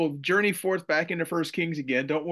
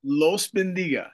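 American accent Spanish. Shown as a demonstration. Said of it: "my gringo accent there".

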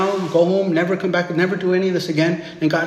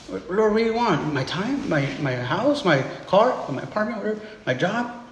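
softer, swooping questioning offers; searching questions; 5 dB quieter than usual. Acted. Preacher asks the Lord what he could give, softly questioning. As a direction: offer each thing up quietly, unsure it suffices. Acting out offers made to God.

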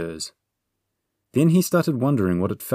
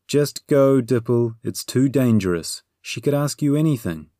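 higher, anxious warning to a friend; worried urging; 5 semitones higher, 4 dB louder than usual. A narrator's reading. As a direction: plead lightly for them to leave. Companion urges Dipple to flee.

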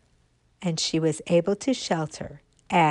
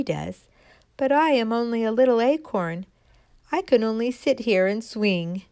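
little acorn's wistful voice; 3 semitones higher than usual. Acted. Acorn telling itself it is only little, wistfully. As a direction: voice a tiny acorn wishing to help. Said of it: "And the little acorn said".

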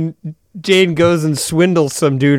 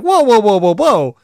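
high-pitched mock protest, imitating a flustered guard; alarmed objection; 4 semitones higher than usual. Club guy stopping Jane walking downstairs, acted-out alarmed objection. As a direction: imitate someone urgently halting an intruder.

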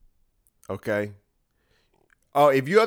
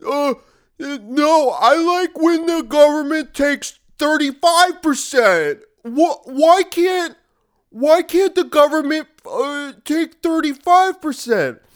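very high, loud, slow dopey voice; mock dim opponent; 14 semitones higher, 8 dB louder, slower than usual. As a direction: play a clueless fool begging to be taxed. Mocking a tax-loving opponent.

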